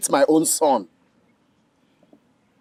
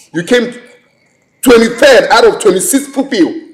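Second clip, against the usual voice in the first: mocking scorn; 4 semitones higher than usual. Father mocking daughter's bad result.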